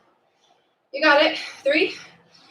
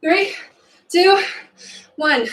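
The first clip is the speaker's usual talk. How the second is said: countdown call; 7 semitones higher, slower than usual. Real, not acted. Workout countdown.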